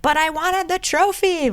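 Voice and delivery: high, mock-whiny little kid. Mocking a toddler who lost the trophy, high and whiny. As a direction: pout it like a crying child.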